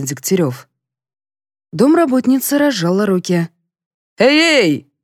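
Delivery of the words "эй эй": high loud yell. A narrator's reading. Colonel as the maid lets go, yelling. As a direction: shout out in alarm. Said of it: "заорал толстяк".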